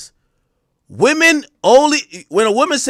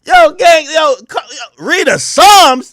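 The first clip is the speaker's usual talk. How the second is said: slow, louder, higher disbelieving shout; incredulous shout; 4 semitones higher, 4 dB louder, slower than usual. Real, not acted. Outraged disbelief at her excuse.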